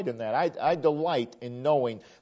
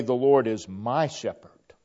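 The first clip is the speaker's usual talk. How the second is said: louder, fuller awe leaning on Lord; greater wonder; 4 dB louder than usual. Shown as a demonstration. Preacher showing the personal version, louder fuller wonder. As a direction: let the awe swell on my shepherd. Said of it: "there's even a greater tone of wonder".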